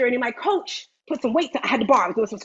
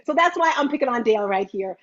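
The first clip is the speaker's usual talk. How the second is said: ordinary talk, nothing marked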